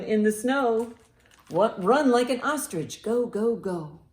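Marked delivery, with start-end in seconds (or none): none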